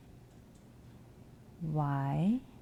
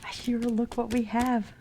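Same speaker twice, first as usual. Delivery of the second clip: excited whisper; 7 semitones higher, 5 dB louder than usual. Real, not acted. Shows pet the new box.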